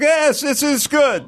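high slow drawn out "Yes"; apathetic accent. Retold or imitated. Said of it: "the apathetic Hispanic".

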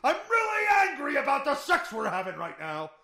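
high, loud grumpy sex voice; mock angry lover. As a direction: act out an annoyed man mid-sex. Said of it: "what is aggravated sexual abuse?".

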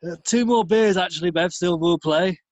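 mock northern bloke. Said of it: "just bog standard northern".

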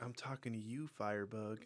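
Southern-accented weatherman, lightly mocked. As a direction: put a Southern twang on the weatherman. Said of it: "why is he Southern?".

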